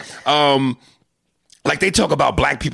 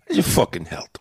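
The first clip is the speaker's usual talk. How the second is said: hushed whisper, Italian-American, health without the H; whispered wise guy; 5 semitones lower than usual. Acted. Host playing the Italian guy, whispered Italian-American accent. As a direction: lean in and whisper it like a mobster. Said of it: "They don't pronounce the H".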